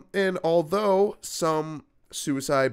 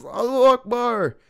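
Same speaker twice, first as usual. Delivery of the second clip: 1 shouted cry; 11 semitones higher, 6 dB louder than usual. Retold or imitated. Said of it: "He goes".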